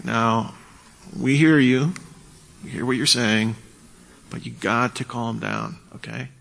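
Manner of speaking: calm phrases with silence between them; patient de-escalation, spaced out; measured, with pauses. Shown as a demonstration. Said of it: "Leave pauses, let there be silence".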